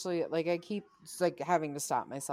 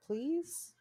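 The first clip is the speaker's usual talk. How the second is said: high, rising beg; pleading; 11 semitones higher than usual. Pretend. Podcaster begs streaming services for a reboot, pleading. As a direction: plead with pitch shooting up at the end. Begging streamers to revive show.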